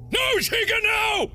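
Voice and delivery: high panicked yell; shouting no. Real, not acted. Pleading with Chica on screen.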